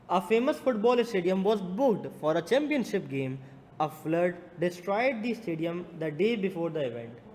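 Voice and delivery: measured classroom read-out; reading question aloud. Real, not acted. Teacher reading the stadium case to students, deliberate read-aloud.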